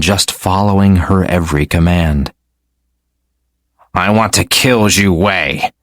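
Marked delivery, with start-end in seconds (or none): 3.9-5.7 words forced through clenched teeth; gritted teeth. Acted. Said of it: "through gritted teeth".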